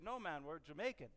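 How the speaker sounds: put-on a slight, clumsy Jamaican accent; bad Jamaican accent. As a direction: attempt a Jamaican accent and miss. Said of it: "That was a really bad accent".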